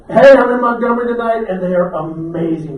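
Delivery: bright announcer hype for the camera; upbeat video greeting. Pretend. Performing a live video greeting for his social media, hyped up. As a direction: sell it to the phone camera. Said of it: "be quiet and go crazy".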